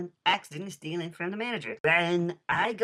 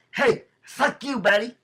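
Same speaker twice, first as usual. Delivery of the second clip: slow hammed-up shout, much louder and higher; mock outburst; 8 semitones higher, 9 dB louder than usual. Thief snapping at the store manager, hammed-up shout. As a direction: yell it at him like a cornered thief.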